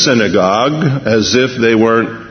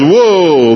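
drawn-out "whoa" of a man flung through the air; mock yell while sailing off; imitated cry of flight; 4 semitones higher, 4 dB louder than usual. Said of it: "The guy goes".

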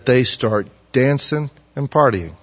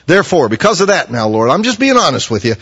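mild angry prayer; 5 semitones higher, 5 dB louder than usual. Acted. Jonah's angry prayer quoted.

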